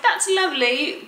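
put-on loud, high, drawn-out English accent; imitated English accent. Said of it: "that accent".

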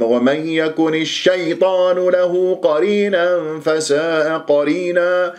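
leaning hard on the "ay" of الشيطان; slow chant with a faulty punch on الشيطان; wrongly stressed recitation. Shown as a demonstration. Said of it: "أنت هالشكل تنبر ولا ينبغي لك هذا".

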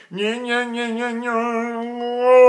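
high nyeh opening into a long sung tone. Shown as a demonstration. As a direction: chant nyehs, then lift the palate into a swelling note. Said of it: "Raise your soft palate up and back".

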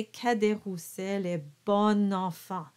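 bon enfant linked with open O and sounded n; liaison diction. Shown as a demonstration. Teacher modelling the whole phrase, bon enfant in liaison. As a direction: say Cadet Roussel est bon enfant, linking "bonn-an-fan". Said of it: "when you pronounce this phrase".

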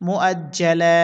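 "মুআজ্জালা" with a long held la; lengthened final vowel. Shown as a demonstration. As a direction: draw out the last vowel of মুআজ্জালা. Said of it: "লামে এক আলিফ টানতে হবে". (মুআজ্জালা-র লা টেনে)

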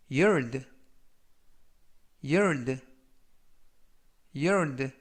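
firm teacher's demonstration with long gaps; slow model reading. Shown as a demonstration. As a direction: project it slowly for learners to repeat. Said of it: "천천히 세 번씩 읽어드리고요".

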